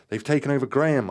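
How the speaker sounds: high, loud cry of horror; horrified shout. A narrator's reading. Narrator warns Graham is possessed, shouting in horror. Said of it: "I shouted in horror".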